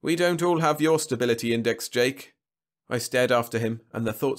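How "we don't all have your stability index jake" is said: contemptuous. A narrator's reading. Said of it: "his smile infinitely contemptuous".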